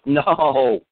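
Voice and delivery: sudden high shout of no; scream. Retold or imitated. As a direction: yell the no out in alarm. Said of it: "and I screamed".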